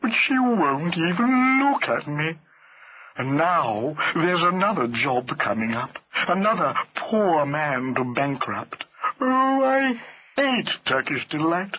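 very slow, plaintive elephant voice; ponderous, self-pitying wail; mournful elephant. A narrator's reading. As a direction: lament every word at length. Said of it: "said Hamlet mournfully".

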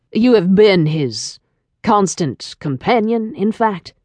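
slow, deliberate interrogator; suspicious male caller. A narrator's reading. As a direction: press the point slowly, as an insinuation. Suspicious caller questions the secretary.

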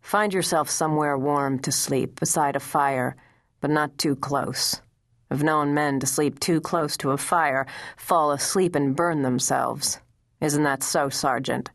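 a hint of the stern commander sending the boy off; understated commanding officer's voice; stern general's order.

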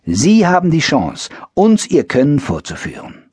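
TV announcer. Retold or imitated. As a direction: read it like a late-night TV ad. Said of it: "hörte ich im Fernsehen die Ankündigung".

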